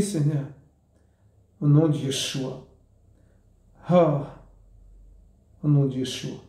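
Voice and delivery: pleading, repeated prayer to the Lord; fervent prayer. Real, not acted. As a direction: beg forgiveness in earnest prayer.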